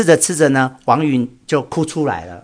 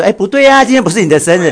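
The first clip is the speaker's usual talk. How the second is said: high, louder mock surprise, pitched up on 不对啊; mock surprised; 7 semitones higher, 4 dB louder, faster than usual. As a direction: protest the fake birthday in a surprised voice. Mock reply to fake birthday.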